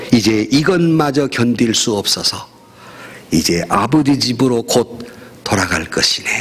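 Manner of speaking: a hint of a weary elder, pausing between phrases; Adams. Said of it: "내 나이 칠십인데". (노인을 살짝 흉내 내며 느릿느릿)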